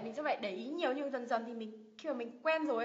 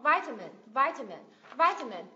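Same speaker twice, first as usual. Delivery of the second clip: "vitamin" with a louder first syllable; stress on first syllable; 5 dB louder than usual. Shown as a demonstration. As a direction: punch the opening of "vitamin". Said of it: "âm thứ nhất cũng được nhấn".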